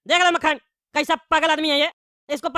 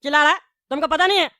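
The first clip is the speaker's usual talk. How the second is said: angry quarrel. Acted. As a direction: bark back at him. Heated quarrel at table.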